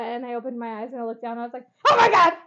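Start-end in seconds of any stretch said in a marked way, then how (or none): 1.9-2.3 high, loud mock exclamation; retold shock. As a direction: burst out with it, reliving the shock.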